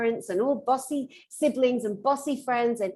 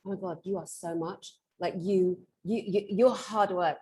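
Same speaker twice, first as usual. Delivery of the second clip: mocking ex-boyfriend; 4 semitones lower than usual. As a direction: mutter it like a weary ex. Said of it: "He'd be like".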